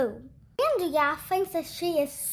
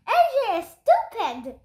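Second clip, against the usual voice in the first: high, loud teasing yell; boy yelling a taunt for the echo; 6 semitones higher, 4 dB louder than usual. Acted. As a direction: shout the insult at the walls. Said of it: "yelled Ryan".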